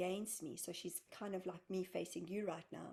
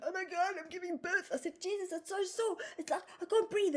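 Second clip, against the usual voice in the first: much higher, louder strained cry of pain; panicked pain; 11 semitones higher, 6 dB louder than usual. Retold or imitated. In the pyramid chamber, crying out to friends in pain, much higher and louder. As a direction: squeal it like you're in labour.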